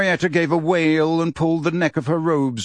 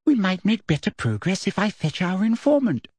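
silky Umbridge; 6 semitones higher than usual. A narrator's reading. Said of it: "said Umbridge silkily".

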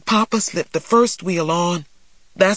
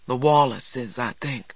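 flat; 3 semitones lower than usual. Acted. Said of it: "said flatly".

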